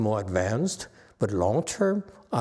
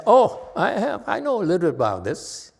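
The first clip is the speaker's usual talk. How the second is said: raised, eager voice of a confident monk; higher, louder, quick self-assured reply; voicing Yang Shen; 6 semitones higher, 5 dB louder than usual. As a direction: play the sure disciple, pitched up. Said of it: "Yang Shen says".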